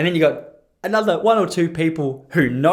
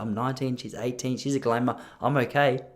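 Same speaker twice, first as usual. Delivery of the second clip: inner thought; 3 semitones lower, 6 dB quieter than usual. Retold or imitated. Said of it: "this is in my head".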